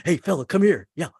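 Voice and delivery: talking moose head. Retold or imitated. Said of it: "animals ... could talk".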